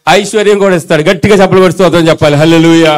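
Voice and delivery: rally the crowd, full voice; rousing preaching. Real, not acted. Preacher urging the congregation to clap, loud and rousing.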